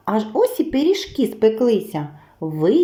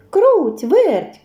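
високий, гучний оклик; гукни друзів, уривчасто й дзвінко; гукає мишенят; 8 semitones higher, 5 dB louder than usual. A narrator's reading. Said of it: "став гукати півник". (півник гукає мишенят високим голосом)

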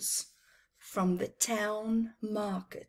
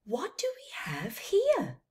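put-on raised, wondering old trader; curious merchant; 8 semitones higher than usual. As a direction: ask it like a kind puzzled merchant. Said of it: "said the merchant".

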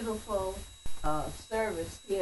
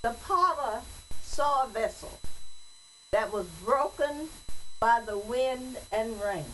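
poem recitation; 2 semitones higher than usual. Acted. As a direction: recite it like a church poem, each phrase set apart. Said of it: "But I'm gonna read it as a poem".

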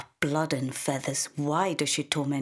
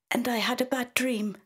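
put-on a small girl whimpering about her sore back; tearful little girl; 9 semitones higher than usual. A narrator's reading. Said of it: "says Isla tearfully".

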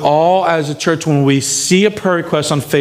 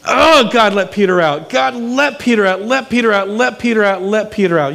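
earnest plea; 2 semitones higher than usual. Retold or imitated. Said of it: "they were just so".

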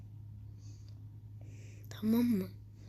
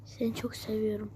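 soft whispered "love you"; whispered affection; 2 semitones lower, 5 dB quieter than usual. Real, not acted. Player whispering love to his brawler, soft. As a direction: breathe it like a secret. Tender line to game character.

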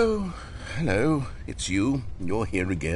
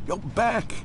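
higher, rising with joy; delighted realization; 6 semitones higher than usual. Acted. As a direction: it sinks in, light up on back. Stanley returns after long absence.

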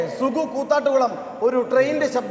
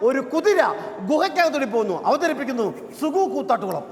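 stage announcer; 2 semitones higher than usual. Real, not acted. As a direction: announce the act to a hall. Mock-grand announcement of act. (Stage അവതാരകന്റെ ശൈലി)

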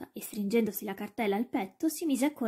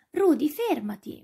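louder, higher, drawn-out command; slow raised call to a runaway dog; 5 semitones higher, 6 dB louder than usual. A narrator's reading. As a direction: call after the dog to stop. Boy calls after his running dog.

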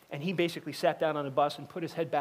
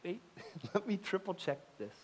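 mock alarmed halt; 4 semitones higher, 6 dB quieter than usual. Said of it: "the more you go".

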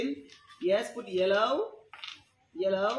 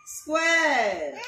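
loud call to class; 2 semitones higher, 4 dB louder than usual. Real, not acted. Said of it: "calling class".

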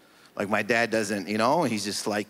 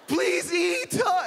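much higher, shouted plea; mock crying mom; much slower than usual. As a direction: beg like a hammed-up mother. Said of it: "cries like it's the Oscars".

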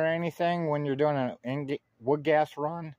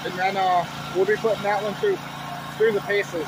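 talking through the hiccups; hiccuping between words; 8 semitones higher, 5 dB louder than usual. Real, not acted. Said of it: "I got the hiccups".

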